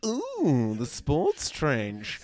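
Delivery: slow, drawn-out tease; lightly imitating a sultry radio sweeper; saucy sweeper voice. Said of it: "Rangers went".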